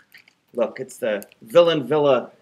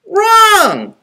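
very high squeaky shout; squeak; 6 dB louder than usual. A narrator's reading. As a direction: squeak it like a piglet. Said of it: "squeaked a little voice".

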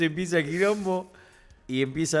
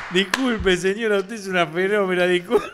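apology broken by laughter, a little louder; laughing apology; 4 dB louder than usual. Retold or imitated. Retelling the apology to the old lady, laughing. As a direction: beg pardon while cracking up.

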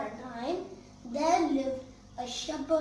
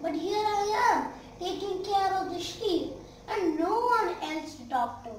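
put-on whiny bored shepherd boy, pitched up; 4 semitones higher than usual. Bored boy alone with the sheep, whining. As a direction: sigh it out like a bored kid.

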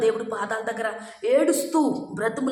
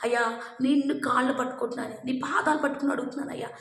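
begging prayer; faster than usual. Retold or imitated. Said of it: "దేవుణ్ణి బ్రతిమలాడుకుని".

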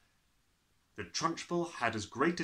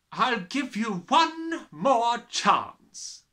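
slow, higher, ominous; 10 semitones higher, 8 dB louder, much slower than usual. Acted. Headmistress giving a last chance. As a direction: threaten slowly.

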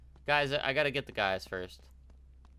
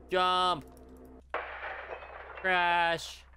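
called-out action words; 6 semitones higher than usual. Acted. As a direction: shout each action like a sound effect. Calls out escape through window.

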